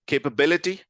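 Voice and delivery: kay-puh-BIL-i-ty, stress on BIL; correct syllable stress. Shown as a demonstration. Teacher offering quiz option, "capability" stressed correctly on BIL. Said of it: "going for three, which is brilliant".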